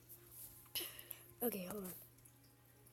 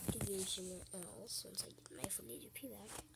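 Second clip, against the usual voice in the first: whispering; 6 dB quieter than usual. Real, not acted. Whispered aside while gaming.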